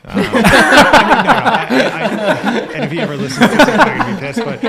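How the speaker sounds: high, breathless laugh-talk; cracking up while talking; laughing hard. Real, not acted. Laughing about his dad.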